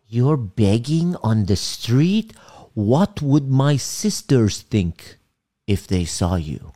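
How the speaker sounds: slow, whispered disbelief turning to a high, dismayed question; scandalised dad. Retold or imitated. Dad scolding son about begging on the street, hushed then high dismay. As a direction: imitate a father appalled at what the family will think. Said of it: "And he goes".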